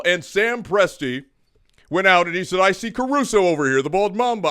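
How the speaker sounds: stately oratory; mock presidential address. Host giving a speech his co-host calls presidential. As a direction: speak like a statesman at a podium. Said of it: "is this a presidential, uh, address?".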